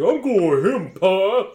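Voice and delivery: put-on excited high, loud child voice; gleeful kid character yell; Elmo. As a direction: shout it to Pa like an eager little kid. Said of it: "Elmo starts clapping his hands".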